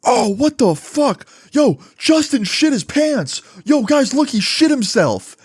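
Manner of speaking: high-pitched, drawn-out mock scream; retold scream. Classmate outing his friend to the class, screamed out high. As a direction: cry it out high and slow like a shocked classmate. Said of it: "Kyle screams out".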